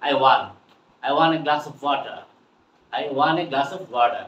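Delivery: "want" ending on N in "I want a glass of water"; dropped T. Shown as a demonstration. Teacher models "I want a glass of water", T in want dropped. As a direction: link "want" into "a" without a T. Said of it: "কি বলবো?".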